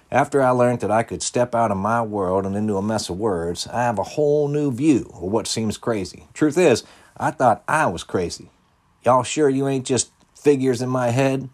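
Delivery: big-hearted clerk laughing at her own craziness; cashier voice. A narrator's reading. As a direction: cashier marvelling to the kids, high and loud.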